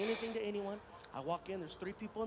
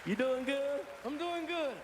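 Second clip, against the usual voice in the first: higher, louder Southern impression; Matthew McConaughey; 5 semitones higher, 5 dB louder, slower than usual. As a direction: imitate a film star's friendly Southern greeting. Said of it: "I hope his voice is the same".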